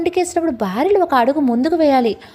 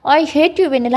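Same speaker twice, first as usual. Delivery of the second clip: mild shout; 2 semitones higher than usual. Acted. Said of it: "అని అరుస్తాడు సిద్ధు".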